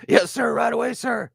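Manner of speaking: high, eager yes-man voice; Darren Rizzy impression. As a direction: chirp it like an eager assistant. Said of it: "that was my Darren Rizzy impression".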